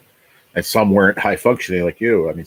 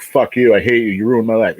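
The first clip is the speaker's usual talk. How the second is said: louder, acted-out lashing out; mildly hammed-up resentment; mock angry outburst; 3 semitones higher, 5 dB louder than usual. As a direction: lash out as if blaming someone, briefly. Acting out lashing out at illness.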